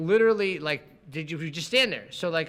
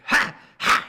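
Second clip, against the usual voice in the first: imitated tic; 7 semitones higher, 7 dB louder than usual. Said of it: "He would do this".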